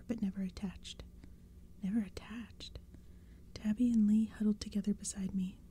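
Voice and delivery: hushed spooky story whisper; whispered storytelling. A narrator's reading. Whole reading whispered.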